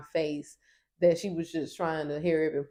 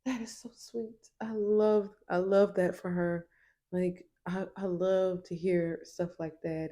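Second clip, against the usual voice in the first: gushing vegan. Retold or imitated. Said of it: "This is the vegan".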